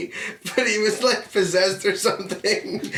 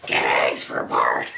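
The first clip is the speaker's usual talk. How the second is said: deep Homer voice. Pretend. Simpsons voice bit.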